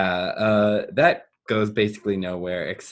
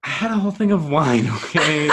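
laughing; 6 semitones higher, 4 dB louder, faster than usual. Real, not acted. Defending self, laughing.

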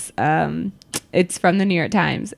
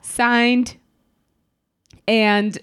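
newscaster voice; 2 semitones higher than usual. Pretend. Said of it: "her great newscaster voice".

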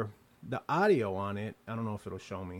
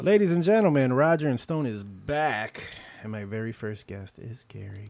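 show host intro; 2 semitones lower, 5 dB louder than usual. Acted.

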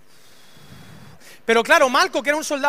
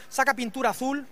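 ordinary talk

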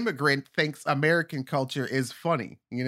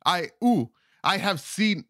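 higher, faltering put-on African accent; attempted African accent; 3 semitones higher than usual. Comic attempting his African stand-up bit, unsure African accent. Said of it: "I can't do this accent".

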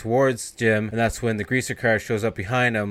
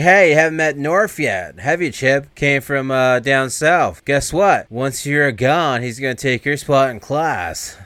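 higher, louder, drawn-out gloating; taunting villain; 3 semitones higher, 5 dB louder, slower than usual. Retold or imitated. Gang leader gloating at kidnapped Chip, loud and slow. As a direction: gloat slowly over your victim.

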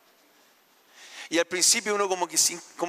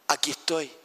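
voice of the Father; faster than usual. Acted. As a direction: speak as a tender Father reassuring his child. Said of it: "el Padre nos dice".

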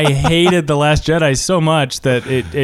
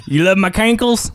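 high redneck twang, questioning; redneck accent; 6 semitones higher than usual. Acted. Redneck character asking a friend about cankles, redneck accent. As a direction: keep up the hammed-up redneck voice. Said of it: "It says redneck".

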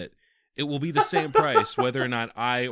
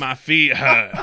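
put-on grumpy British accent, a bit louder; cranky British sleeper complaining; angry British man; 9 dB louder, slower than usual. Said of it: "angry British man".

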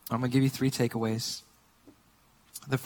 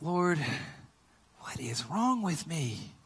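retold remorse; 7 dB quieter, slower than usual. Remorseful prayer to the Lord.

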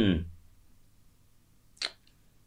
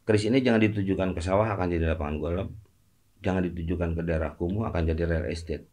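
shaman; 6 semitones lower, 7 dB quieter than usual. Retold or imitated. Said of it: "Itu saya jadi dukun".

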